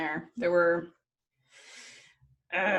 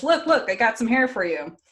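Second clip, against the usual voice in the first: higher, louder, eager retold offer; mock eager pitch; 5 semitones higher, 6 dB louder than usual. Retelling Loki bringing back hair, eager mock pleading. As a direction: show off your peace offering in a hurry.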